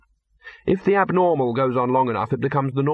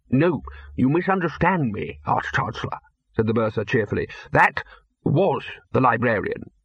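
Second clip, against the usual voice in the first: cheerful. Acted.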